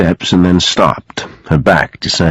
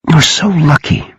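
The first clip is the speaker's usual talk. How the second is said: high-pitched, envious longing; deep envy; 9 semitones higher than usual. A narrator's reading. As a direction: say it with heartfelt envy. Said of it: "with all the envy in her heart".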